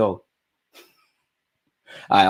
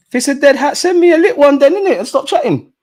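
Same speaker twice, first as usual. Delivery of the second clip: high, louder playful comeback; mock indignation; 13 semitones higher, 5 dB louder than usual. Real, not acted. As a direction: bite back at chat in jest. Answering chat's hat insult.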